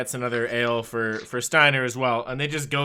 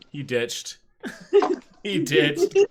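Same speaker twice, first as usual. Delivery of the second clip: laughing repeat; 3 semitones higher, much slower than usual. Real, not acted.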